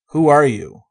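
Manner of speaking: urgent call. Acted. Hero urgently questions the girl.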